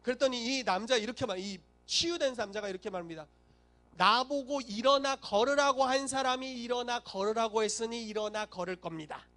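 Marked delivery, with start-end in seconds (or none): 4.0-9.2 insistent retort. Acted. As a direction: hold your ground, stretching the words. Healed man answers his accusers.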